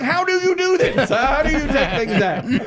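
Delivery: high, exasperated dad questions; retold flustered demand. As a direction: demand answers in mock-helpless frustration. Flustered dad questioning his son.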